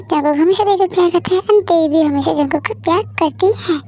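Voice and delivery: calm, even storyteller voice; story narration. A narrator's reading. Narrator telling listeners how Jungkook and Devi spent the week, calm storytelling. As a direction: narrate the happy week gently.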